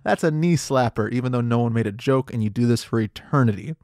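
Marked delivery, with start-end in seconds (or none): 0.0-1.1 high hammed-up fake laugh; forced high ha-ha; mock knee-slap laugh. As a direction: cackle like you heard a great joke. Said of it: "start slapping your leg and going".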